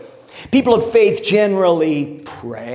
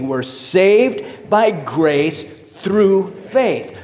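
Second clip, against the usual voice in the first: very slow, drawn out, every word spaced; unison recitation; much slower than usual. Shown as a demonstration. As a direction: chant it together with the room. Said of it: "Maybe say that with me".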